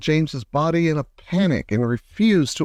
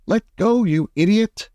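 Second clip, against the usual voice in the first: sharp raised yell, higher on let go; shouted; 6 semitones higher than usual. A narrator's reading. Centipede yelling at James to let go, raised voice. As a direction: snap it at him, raised and higher. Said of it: "shouted the centipede".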